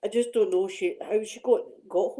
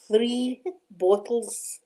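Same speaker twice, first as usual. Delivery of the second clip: laughing emphasis; much slower than usual. Real, not acted.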